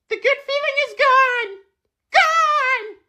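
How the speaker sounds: hammed-up sob over a lost good mood; fake-weep the word gone; a theatrical whimper of despair; mock crying.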